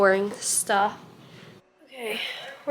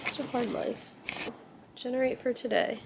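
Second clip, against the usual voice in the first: hushed so no one wakes; quiet; 12 dB quieter than usual. Real, not acted. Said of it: "Someone is gonna wake, is, wake up as soon as she hears me talking".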